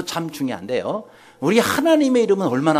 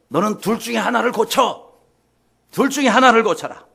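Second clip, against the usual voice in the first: high-pitched, emphatic mock decree; stern imperial command; 6 semitones higher, 4 dB louder than usual. Emperor giving the trembling soldier a choice, acted stern order. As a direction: lay down an ultimatum like an emperor.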